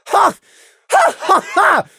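high, loud barks of fake laughter; forced spiteful laugh. A narrator's reading. Lily mocking Saffron's offer, forced spiteful laughter. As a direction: bark out spiteful ha-has. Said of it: "forced bark of spiteful laughter".

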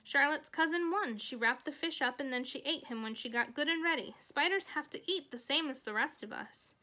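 lightly voiced proud girl; Fern, triumphant storyteller. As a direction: announce the outcome brightly, then explain. Voices Fern finishing her tale.

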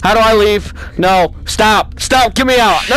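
loud frantic begging to get out; real panic, repeating it over and over; terrified player begging to escape; panicked pleading. Real, not acted. Panicking in VR horror game.

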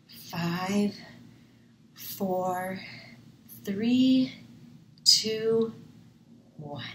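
calming countdown. Acted. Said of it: "count backwards from five to calm down".

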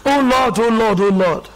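imitating rote, repeated pleading; mock uninvolved praying; empty prayer. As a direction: pray as if out of words. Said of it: "You're empty".

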